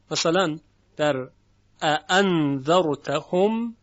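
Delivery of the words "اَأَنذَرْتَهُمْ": اَأَنذَرْتَهُمْ recited with its two opening hamzas; example word recited. Shown as a demonstration. Teacher gives Warsh's example, Quranic recitation.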